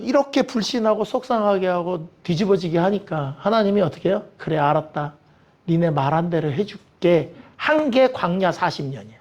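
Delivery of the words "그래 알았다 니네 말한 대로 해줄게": low, slowing concession; understated divine resignation; resigned consent. Acted. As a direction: give in gravely, drawing out the promise. God giving in to the complaints.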